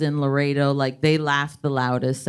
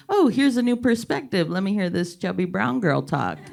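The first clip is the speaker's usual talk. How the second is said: high-pitched opening, mock open-minded listener; mock curiosity; 3 semitones higher than usual. Unfamiliar audience samples a new perspective, mock curiosity. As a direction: pitch up on a condescending show of interest.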